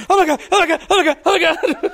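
high, rapid-fire imitated yapping; overexcited puppy. Puppy hearing your voice over the phone, mock frantic excitement. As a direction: repeat it like a thrilled puppy. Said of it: "He's like a puppy".

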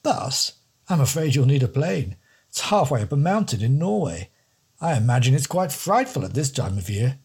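a fussy don, mildly horrified; posh don, shuddering. Acted. The don warning the detective about Norway, plummy with a mild shudder. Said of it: "shuddering at the thought".

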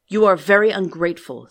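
loud, menacing beast; terrible beast voice. Acted. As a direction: roar it like a monster. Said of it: "in a terrible voice".

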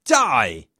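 a short, restrained attacker's shout; mild shout. A narrator's reading. Treacherous friend attacking with an axe, mildly shouting. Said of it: "hear his friend shouting".

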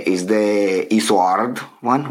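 Isoard said slowly, unsure of it; unsure pronunciation. Real, not acted. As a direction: feel your way through Isoard. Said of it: "however that's pronounced".

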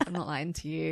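half-laughing inner thought. Retold or imitated. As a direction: say it through a laugh. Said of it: "you'll just think".

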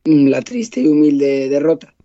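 hoarse, croaky voice from a cold; rough, worn-out voice from a cold; voice of death. Real, not acted. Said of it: "adoptado la voz de la muerte".

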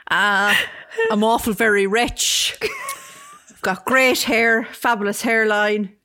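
laughing fantasy boast. Pretend. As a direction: brag about Beverly Hills while cracking up. S0 acting out his rich fantasy life.

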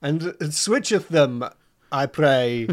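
slow hammy Shakespearean announcer; overdone mock-Elizabethan pronouncement; hammy stage actor. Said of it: "Shakespeare riffing".

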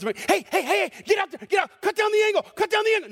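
father yelling at his son from the sideline; sideline dad yelling. Retold or imitated. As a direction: yell at the goalie from the sideline. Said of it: "you could hear those words".

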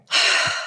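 long exasperated sigh; retold sigh. Doctor on the phone, impatient, sighing at her patient. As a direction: sigh like a doctor who has heard enough. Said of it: "I could hear her going".

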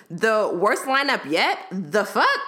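slow, mocking disbelief with rising tune; incredulous. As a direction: throw his words back at him. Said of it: "how dare you disrespect the queen?".

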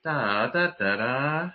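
"da, da" hummed out with a rising end; question tune. Retold or imitated. Voice coach analysing the intonation, questioning "da, da". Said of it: "That's a question".

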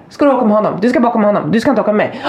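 mildly acted indignant protest; angry child imitation. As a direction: imitate a cross kid demanding answers. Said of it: "Svante blir skitarg".

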